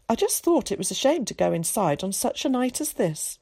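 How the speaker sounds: a hint of a chatty cultured boy. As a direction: chatter like a well-spoken schoolboy.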